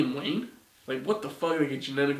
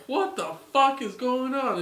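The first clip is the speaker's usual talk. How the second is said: high-pitched, baffled outburst; exasperated; 9 semitones higher than usual. Real, not acted. Reviewer baffled by the character's sudden turn, exasperated. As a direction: pitch jumps up in exasperated disbelief. Ranting at a nonsensical plot turn.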